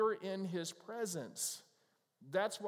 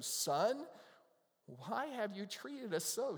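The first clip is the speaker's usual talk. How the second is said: a mother's scolding, higher and slower; mild scolding; 6 semitones higher, much slower than usual. Acted. Mother scolding her missing son, a touch of scolding. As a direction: scold him gently but firmly, drawn out. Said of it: "She's scolding the Son of God".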